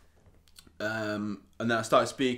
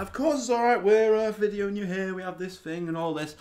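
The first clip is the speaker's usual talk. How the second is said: imitated bouncer; 8 semitones higher than usual. Acting out the bouncer's reassuring reply.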